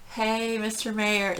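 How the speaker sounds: drawn-out, courteous greeting; polite and courteous. Retold or imitated. Fan politely greeting a music star, courteous. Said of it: "I'm being all, like, polite and courteous".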